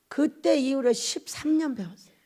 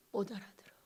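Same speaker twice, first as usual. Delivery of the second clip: very low, faint, sorrowful reply; imitating a grieving father, hushed; tearful, choked-up voice; 7 semitones lower, 18 dB quieter than usual. God answers about the others, choked sorrowful hush. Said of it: "이런 목소리였어요".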